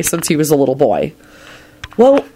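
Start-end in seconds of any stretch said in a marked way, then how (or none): 2.0-2.2 higher, light forgiving reply; easy, cheerful reassurance. A narrator's reading. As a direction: brush it off brightly, pitch lifting. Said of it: "he replied cheerfully".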